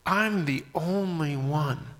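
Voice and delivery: slow, lightly voiced lament; mild self-pity. Preacher echoing Elijah's complaint, in mild slow lament. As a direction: draw it out with a touch of woe. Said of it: "Have you ever felt that way?".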